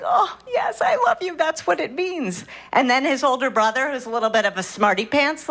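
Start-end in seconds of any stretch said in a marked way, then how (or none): 0.0-2.4 sweet, high, doting answer; tender mom reply. Retold or imitated. Mother answering her little son, sweetly, much higher. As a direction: gush lovingly at the little one.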